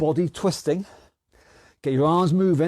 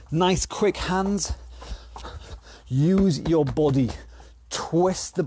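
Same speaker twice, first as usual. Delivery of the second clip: coach cheering on; 3 semitones higher than usual. Real, not acted. Coach calling out during boxing.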